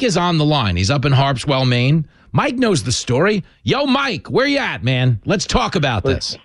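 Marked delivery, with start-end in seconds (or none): 3.6-5.2 upbeat caller greeting. Real, not acted. Calling in a caller.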